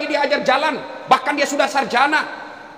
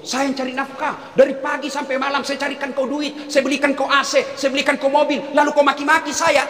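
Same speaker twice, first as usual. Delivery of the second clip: boastful husband. Retold or imitated. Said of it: "setan yang ngomong begitu".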